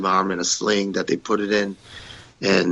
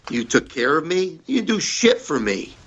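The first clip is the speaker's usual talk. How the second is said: angry retort; 7 semitones higher than usual. Retold or imitated. Retold confrontation with Vince.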